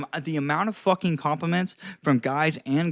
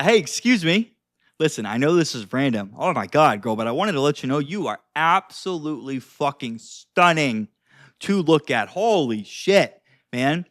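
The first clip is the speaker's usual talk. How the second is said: emphatic, upbeat compliment; enthusiastic, wowed compliment; 3 semitones lower than usual. Shown as a demonstration. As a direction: gush as if genuinely stunned by them. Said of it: "you're, like, upbeat".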